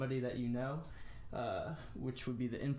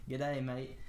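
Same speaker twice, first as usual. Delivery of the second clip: light mock Australian accent on "G'day, mate". Teacher comparing a Russian word to Aussie slang, mock Australian accent. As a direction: poke fun with an Australian accent. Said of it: "making fun of a Australian or something".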